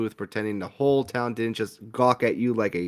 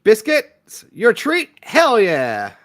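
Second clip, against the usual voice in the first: higher, louder eager yelp; excited; 9 semitones higher, 7 dB louder, much slower than usual. Acted. Player thrilled at the free biscuit offer, excited. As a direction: jump at the free food.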